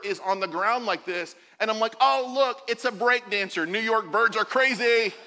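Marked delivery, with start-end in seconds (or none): 2.0-5.1 higher, louder mock amazement; feigned excitement. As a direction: play up a cheerful cover story. Covering up with a cheerful excuse.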